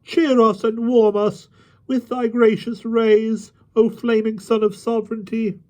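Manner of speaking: ironic high-pitched wailing plea; mocking supplication. A narrator's reading. Kneeling rabble begs the mock king for favour, mocking wail. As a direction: wail it high in sham worship. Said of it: "ironical wailings and mocking supplications".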